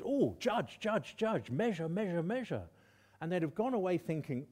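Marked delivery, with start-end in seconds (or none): 0.0-2.6 1 echoing words. Retold or imitated. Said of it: "ringing in their ears".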